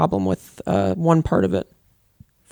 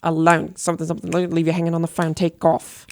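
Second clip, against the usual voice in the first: Richard Ayoade. Retold or imitated. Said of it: "That's my Richard Ayoade impression".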